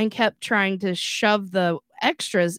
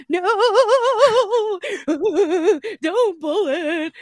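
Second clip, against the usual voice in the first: high, wailing plea, stretched out long; hammed-up bawled protest; mock screaming; 10 semitones higher, 5 dB louder than usual. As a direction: imitate a kid howling not to be touched. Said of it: "he screams".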